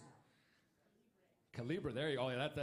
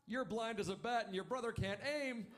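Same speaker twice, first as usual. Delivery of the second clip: high mom voice for the punchline; imitated amused mom; 7 semitones higher than usual. Mom teasing her sons about their names, high imitation. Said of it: "she starts laughing really loud".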